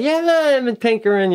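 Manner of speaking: mock modesty. Feigned modesty to parents in skit.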